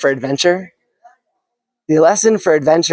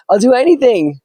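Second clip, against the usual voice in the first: a mild nervous plea, pitched up; pleading prayer; 5 semitones higher, slower than usual. Acted. Stranded man begs God to save him, mildly pleading. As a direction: beg God for rescue, lightly acted.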